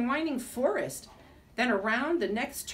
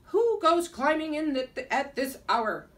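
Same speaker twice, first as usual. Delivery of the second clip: loud, higher gruff Russian Nutcracker; gruff Russian accent; 5 semitones higher, 5 dB louder than usual. Acted. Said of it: "spoke in a Russian accent".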